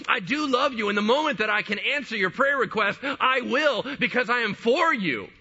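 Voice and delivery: high, impassioned, joyful preaching voice; Jesus exploding with joy. Retold or imitated. Jesus assuring the persistent woman of love, exploding with joy. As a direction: pour out fervent approval, pitched high throughout. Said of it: "he explodes in this joy".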